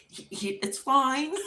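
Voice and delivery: stammering, high mock-weepy reassurance; crying. Crying wife insists to guests that it's fine, mock tearful. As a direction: act out choking out reassurance through tears. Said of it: "I'm crying".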